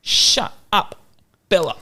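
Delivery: half-hearted imitation of a toddler; dad imitating his toddler telling the dog off; toddler yelling. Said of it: "And I was like".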